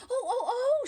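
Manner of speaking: a mother's pained sympathy; mother's sympathetic cry. Acted. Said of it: "she said".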